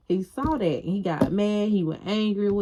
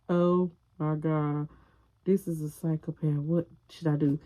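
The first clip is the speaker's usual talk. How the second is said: hushed panic to herself. Retold or imitated. She realises he is a psychopath, hushed fear. Her frightened inner thought.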